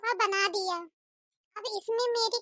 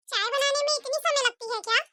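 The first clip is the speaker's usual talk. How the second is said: impatient stingy saas, a bit higher; scolding mother-in-law; 4 semitones higher, faster than usual. Acted. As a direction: nag the daughter-in-law to hurry. (बहू को डांटती कंजूस सास)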